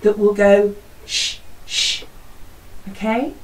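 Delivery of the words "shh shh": soft drawn-out shh; teacher demonstrating the avalanche sound; avalanche shush. Shown as a demonstration. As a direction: hush like falling snow. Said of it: "an avalanche interrupting his cry that will go".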